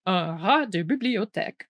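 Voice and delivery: "Un rat de bibliothèque" in native French sounds; French pronunciation. Shown as a demonstration. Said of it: "We say".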